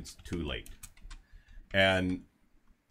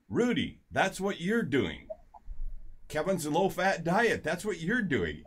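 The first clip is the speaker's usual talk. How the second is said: higher, louder, slower mock-scold of her husband; scolding wife; 9 semitones higher, 3 dB louder than usual. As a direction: play the wife nagging Rudy, pitch up. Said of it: "and his wife says".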